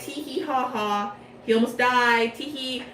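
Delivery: a hammed-up villain titter, tee hee; mock giggle. Leona giggling over the trampled Malleus, mock titter. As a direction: giggle gleefully like a cartoon villain. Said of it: "And Leona's like".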